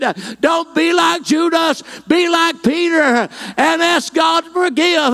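fervent revival appeal to come home; altar call preaching. Acted.

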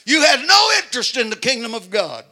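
loud, high shouting sermon; preaching at full force. Acted. Preacher urging congregation to crucify the flesh, shouting. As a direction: build to a hollering preacher's climax.

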